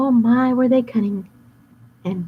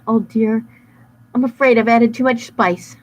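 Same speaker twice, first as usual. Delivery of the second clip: lightly voiced worried baker; a hint of a fretful baker; fussy baker voice; 4 semitones higher, 4 dB louder than usual. Baker describing the runaway cookie, fretful.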